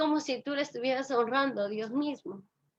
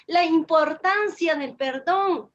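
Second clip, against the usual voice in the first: raised, emphatic preaching voice; 3 semitones higher, 3 dB louder than usual. Real, not acted. Speaker teaches beloved brethren about forgiveness, preaching emphatically. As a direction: preach it out to the congregation.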